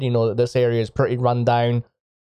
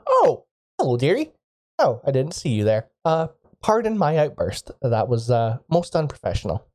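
put-on elderly singsong; 2 semitones higher than usual. Shopkeeper switches to sweet greeting.

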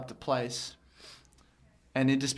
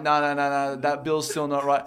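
loud mock denial; 6 dB louder than usual.

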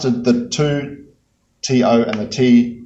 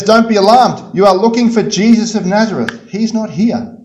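proclaiming angel; 7 semitones higher, 4 dB louder than usual. Acted. Angel announces at the tomb.

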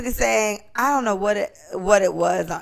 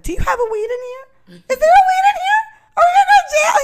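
panicked; 4 dB louder than usual. Retold or imitated. Panicked retold quote to friend.

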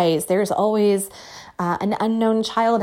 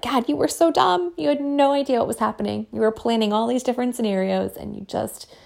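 mock scolding future self; 3 semitones higher than usual. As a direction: tease your younger self from a year on. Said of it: "be like".

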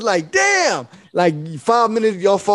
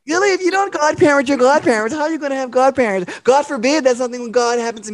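nagging mom; 4 semitones higher than usual. Retold or imitated. Parent nagging child Billy.

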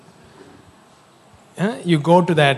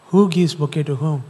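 lightly imperious retold demand, growing louder; mock imperious; 6 dB louder than usual. Seated guest orders the welcomers about, mock imperious. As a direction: play a man loudly dismissing the honor. Voicing seated man refusing to honor Dada.

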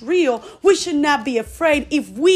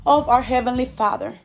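led prayer. Acted. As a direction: lead them through it phrase by phrase. Leads the prayer, slow pauses.

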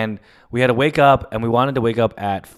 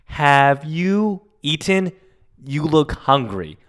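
grandmother; 3 semitones higher, slower than usual. Retold or imitated. Imitates grandmother.

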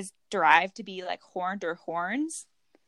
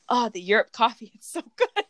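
gushing tourist; 3 dB louder than usual. Retold or imitated. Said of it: "I was, like, just thinking to myself".

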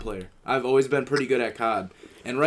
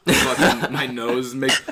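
laughing; 4 dB louder, much slower than usual. Real, not acted. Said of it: "listen to this".

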